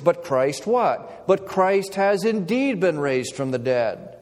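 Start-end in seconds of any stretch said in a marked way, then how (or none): 1.3-4.2 "indeed" pressed firmly, then a falling close; stress on indeed. Shown as a demonstration. Preacher affirming the resurrection to the congregation, emphatic. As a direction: declare it with conviction on "indeed". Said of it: "our first certainty".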